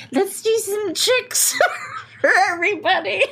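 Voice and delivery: SeaWorld trainer voice. Pretend. Mock SeaWorld trainer announcement.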